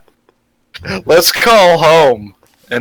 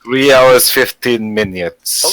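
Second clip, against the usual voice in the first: put-on Russian accent; slower than usual. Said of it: "speak in English in a Russian accent".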